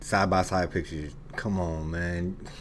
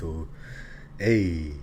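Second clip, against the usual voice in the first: playful put-on Nigerian accent; slow, teasing Nigerian accent; slower than usual. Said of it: "I'll be speaking in my Nigerian accent".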